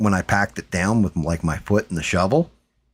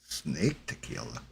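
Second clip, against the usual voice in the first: incredulous; 7 semitones lower, 13 dB quieter than usual. Real, not acted. Reacting to tequila idea.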